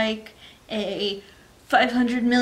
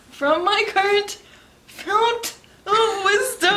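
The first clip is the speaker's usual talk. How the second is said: mocking, sarcastic, pitched-up delivery; 9 semitones higher than usual. Giving advice to a future self: sarcastic. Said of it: "I say sarcastically".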